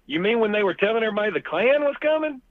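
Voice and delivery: quick, high-pitched retold question; mock incredulous question. Man asks the lady about the Klan rumour, mock incredulous. Acting own amused disbelief.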